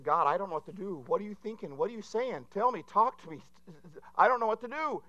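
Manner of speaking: acted pleading, rising in pitch; desperate plea. Acts out desperate plea to God.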